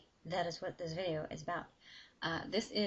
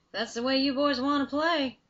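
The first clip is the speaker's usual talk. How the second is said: higher and louder, amused and ready to brawl; cocky challenge; 6 semitones higher, 11 dB louder than usual. Acted. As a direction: throw it out like a dare. Billy laughs, accepts the fight.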